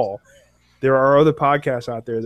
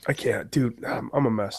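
stuffy nose, congested voice; blocked nose; 3 semitones lower, 6 dB quieter than usual. Real, not acted. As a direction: talk through a blocked nose. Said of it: "It's, it's so obvious in your voice".

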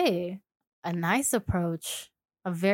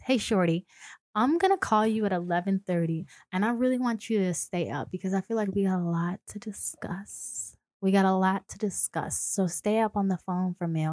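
sultry; 2 semitones lower, 3 dB quieter than usual. Shown as a demonstration. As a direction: coax them softly to stay up. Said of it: "use your sultry voice".

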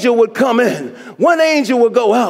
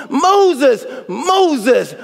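voice of God; 4 semitones higher, slower than usual. Acted. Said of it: "And God said to Moses".

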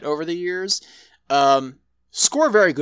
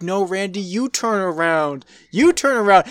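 urging him to turn around; urgent warning; 4 semitones higher than usual. Retold or imitated. Mindy yelling at Randy on screen.

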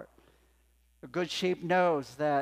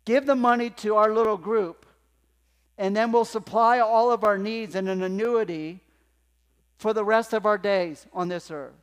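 loud, higher huckster voice; mock sales pitch; 5 semitones higher, 9 dB louder than usual. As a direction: sell it like a pushy promoter. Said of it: "He didn't say".

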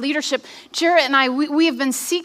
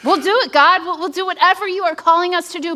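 higher-pitched, hurried promise; eager pledge to God; 5 semitones higher, faster than usual. Retold or imitated. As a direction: pledge it quickly, pitch lifted, in earnest. Acted eager answer to God.

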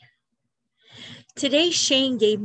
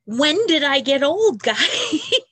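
laughing through tears, a bit louder and higher; 4 semitones higher, 5 dB louder, slower than usual. Real, not acted. Laughing at turning forty-two.

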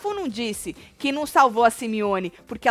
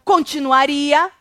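loud, slow, higher answer; imitating housemate; 5 semitones higher, 10 dB louder, slower than usual. Host voicing Kali's quick reply, loud and slow. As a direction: stretch it out boldly, loud and up. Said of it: "Olha a rapidez dela".

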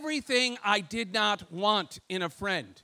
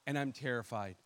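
hushed fearful plea, sinking lower; quietly scared prayer; 4 semitones lower, 5 dB quieter than usual. Retold or imitated. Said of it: "I'm like".

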